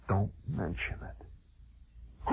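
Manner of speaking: slow hushed warning; whispered warning to a friend; secret whisper. Retold or imitated. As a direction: breathe it like a secret.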